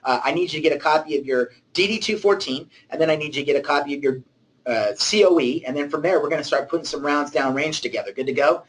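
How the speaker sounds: crisp commanding officer tone; fast, clipped orders like a sergeant; military voice. Pretend. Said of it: "The military man or woman, you say".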